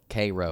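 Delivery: "Cairo" said KAY-ro; local pronunciation. Shown as a demonstration. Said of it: "but they call it".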